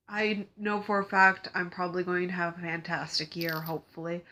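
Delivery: stuffy congested voice from a cold. Real, not acted. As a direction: talk through a blocked nose. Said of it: "sorry if I'm sounding congested".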